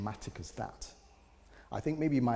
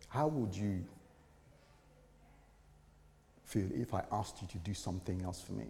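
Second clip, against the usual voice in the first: soft whisper of God; 2 semitones lower, 5 dB quieter than usual. Retold or imitated. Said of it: "what he whispered to my ears".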